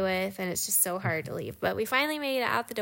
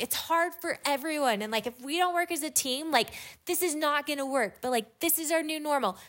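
higher-pitched, restrained telling-off; retold yelling; 6 semitones higher than usual. Woman retelling her speech to the family, mild exasperated yelling. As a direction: urge them insistently, holding back from a real shout. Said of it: "I am, like, yelling at them".

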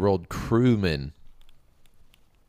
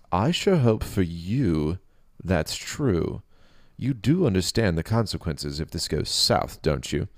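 stern warrior king; 2 semitones higher than usual. Acted. King voiced in story.

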